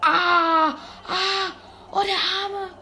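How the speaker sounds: high laughing yelps of pity; laughing shriek. Real, not acted. Gamer laughing as a man falls off the crane. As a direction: squeal and laugh at his fall.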